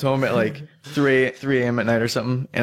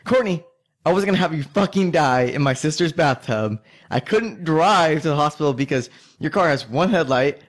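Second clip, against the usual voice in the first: angry; 4 semitones higher than usual. Retold or imitated. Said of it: "I got pissed off".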